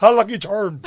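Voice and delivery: hammed-up Irish catchphrase accent; badly faked Irish lilt. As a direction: throw a weird Irish accent on it.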